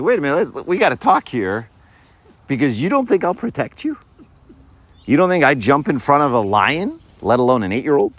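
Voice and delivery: playful wounded father pride; offended dad. Retold or imitated. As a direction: act personally insulted. Dad taking it personal.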